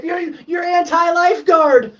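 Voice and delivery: high loud mock accusation; mock accuser. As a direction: sneer the label at him. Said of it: "You're like".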